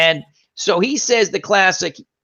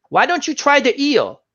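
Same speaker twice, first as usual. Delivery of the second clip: higher, lightly voiced little old lady; old Vietnamese woman; 9 semitones higher than usual. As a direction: tease him like the tiny waitress. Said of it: "she'd be like".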